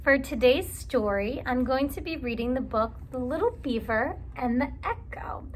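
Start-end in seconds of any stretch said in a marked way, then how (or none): 3.1-5.4 whispered title. Acted. Title whispered in story intro.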